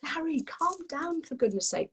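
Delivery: exasperated plea. Acted. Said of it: "he doesn't hear the".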